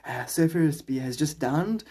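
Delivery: mock reporter after a tumble, slowing down; lightly imitated surf commentator; surf reporter character. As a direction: keep reporting as if just tripped. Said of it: "trip over his own leash and be like".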